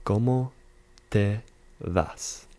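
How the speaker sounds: ¿Cómo te vas? said slowly and clearly, word by word; teacher repeats ¿Cómo te vas? for students to copy; careful model phrase. Shown as a demonstration. Teacher modelling the phrase for learners, slow and clear. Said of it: "That's gonna be your tú form".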